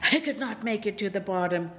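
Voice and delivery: breathless, rushed and stumbling; out of breath. Acted. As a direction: pant the words out of breath. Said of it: "Out of breath".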